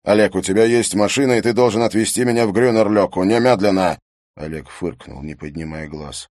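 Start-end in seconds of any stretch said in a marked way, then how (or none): 0.0-4.0 loud commanding order; urgent command. Acted. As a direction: order him now. Harry ordering Oleg.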